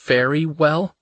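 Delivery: "Very well?" lifted high into a questioning rise on "well"; puzzled echo. Acted. Woman echoes his odd answer in a high puzzled question. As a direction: echo "Very well?" back, baffled, pitch climbing.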